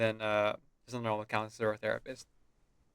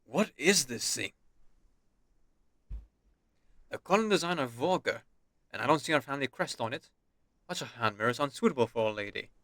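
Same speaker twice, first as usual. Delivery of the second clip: lightly voiced stern noble father, disapproving; a hint of a cold aristocratic father scolding. Father inspecting daughter's hand mirror, lightly voiced stern disapproval.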